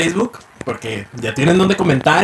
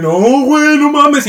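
high mock alarm; lightly hammed fright; mock panic; 9 semitones higher, 3 dB louder, much slower than usual. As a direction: whimper it like you're about to be robbed. Imagining the friend's panic.

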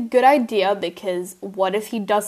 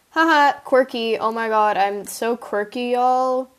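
sarcastic; 2 semitones higher than usual. Acted. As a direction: gush about being quirky, clearly not meaning it. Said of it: "That was sarcasm".

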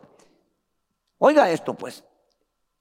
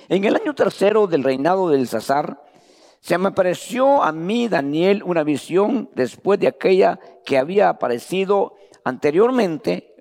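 lectura bíblica. Acted. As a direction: proclaim the verses to the church. Reading scripture to congregation. (lectura solemne de la Escritura en voz alzada)

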